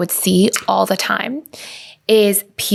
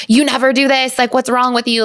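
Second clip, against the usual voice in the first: retold critical jab, pitched up; harsh, critical; 4 semitones higher than usual. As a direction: imitate a critical outburst. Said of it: "kind of harsh or critical".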